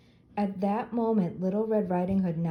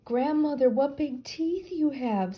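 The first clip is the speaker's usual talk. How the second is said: frightened; 7 semitones higher, 3 dB louder than usual. A narrator's reading. Girl frightened at grandmother's bed.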